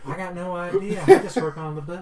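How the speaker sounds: loud, high, rough boatman; gruff dockhand shouting; dockworker voice. Acted. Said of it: "That was a Bob question".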